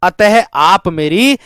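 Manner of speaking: अतः said slowly and firmly as the linking word; stress on अतः. Shown as a demonstration. Teacher stresses अतः slowly to mark the connector. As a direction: lean on अतः, drawn out. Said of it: "ऐसे कह दो".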